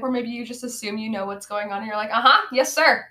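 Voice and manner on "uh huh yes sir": eager yes-man. Acted. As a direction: play an underling agreeing without understanding. Mimics clueless underling answering boss.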